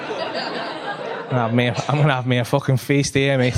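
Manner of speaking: slow low gloating voice; greedy voice. Retold or imitated. Comedian voicing the imagined glee, low and slow. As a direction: savour it like a feast.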